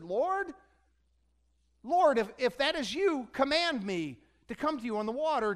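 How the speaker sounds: a lightly voiced Peter, anxious and unsure; Peter calling out.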